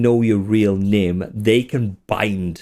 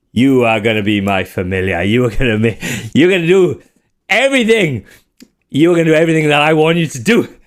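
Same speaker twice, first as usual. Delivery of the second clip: giddy bossy wizard, rising loud; gloating wizard; 2 semitones higher, 3 dB louder, faster than usual. Acted. Wizard ordering his familiar around, giddy and loud. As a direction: lord it over the imp.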